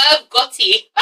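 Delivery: the name in a native English accent. Shown as a demonstration. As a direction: say it the English way, no American R. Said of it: "in my English accent".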